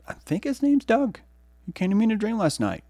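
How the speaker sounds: high, quick playful aside; telling the audience about a dream plant, high and playful. Acted. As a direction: tease the listeners lightly. Introducing the plant Doug.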